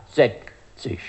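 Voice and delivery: „sechzig“ mit kleiner Pause zwischen „seck“ und „zisch“; „seck … zisch“ gedehnt vorgeführt; mit Päuschen. Shown as a demonstration. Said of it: "Z I S C H". („sechzig“ in zwei Teilen, mit Päuschen dazwischen)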